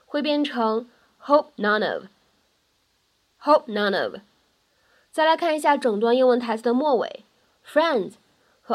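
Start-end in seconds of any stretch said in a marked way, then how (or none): 1.2-4.2 "hope none of" slowly, p unreleased, "none" linked into "of"; plosion and linking. Shown as a demonstration. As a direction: hold the p, then glide "none of". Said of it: "我们可以做一个不完全爆破". (不完全爆破加连读 hope none of)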